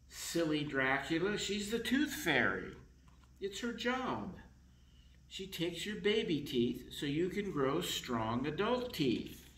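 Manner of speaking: gentle parents. Acted. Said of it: "mom and dad come in and say".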